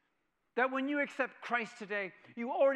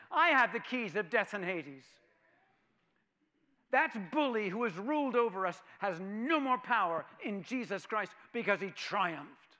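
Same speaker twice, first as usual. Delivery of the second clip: triumphant; 5 dB louder than usual. Real, not acted. Preaching climax.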